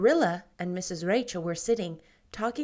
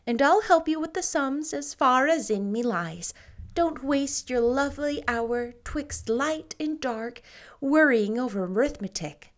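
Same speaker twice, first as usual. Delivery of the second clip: put-on light, higher girlish voice, dreamy; Anne's voice; 4 semitones higher, 3 dB louder than usual. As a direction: lift the voice a little for young Anne. Anne coaxes Davy.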